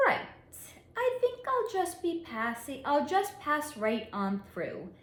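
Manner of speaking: put-on light British accent, pitch rising on the opening. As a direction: playfully put on a posh British accent for the quote. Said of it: "said in a great British accent".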